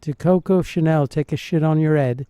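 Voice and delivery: mimicked Northern English accent, dropping the h; imitated Northern English. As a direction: try a Northern England accent on the insult. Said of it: "So he's from the north".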